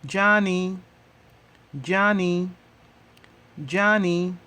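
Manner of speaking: Johnny spoken as the Swahili jani, each syllable clear; Swahili model word. Shown as a demonstration. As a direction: repeat Johnny like a teacher's model, even and distinct. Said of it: "How do you say leaf in Swahili?".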